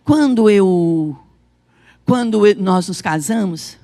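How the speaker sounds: low, measured husband's words; earnest reassurance, retold. Pastor reminding his wife of their wedding days, retold in low earnest tones.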